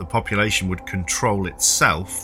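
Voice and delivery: reading a prepared documentary script; steady, clear storytelling read; scripted podcast narration. Acted. Reads her prepared minisode script.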